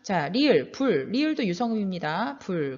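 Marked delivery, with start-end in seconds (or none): 2.4-2.8 불 falling lower onto a clear l; final ㄹ demonstration. Shown as a demonstration. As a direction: model 불 with the l fully sounded. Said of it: "그대로 발음하면 되겠고요".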